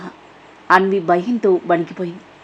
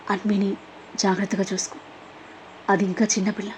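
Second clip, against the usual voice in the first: much softer, feeble and fading; weak dying voice; 9 dB quieter than usual. Acted. Dying father entrusting his daughter, weak and soft. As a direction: barely get the words out, like a dying man. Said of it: "నీరసంగా".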